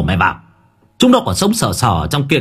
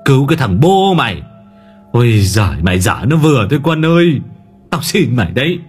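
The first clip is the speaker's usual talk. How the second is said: exasperated father's outburst; making a row; 3 semitones higher than usual. A narrator's reading. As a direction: curse him, then beg him to stop. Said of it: "ông Nghĩa làm ầm lên".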